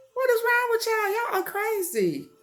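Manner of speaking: high, laughing what-is-wrong; laughing disbelief. Real, not acted. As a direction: laugh through the question. Laughs at the news story.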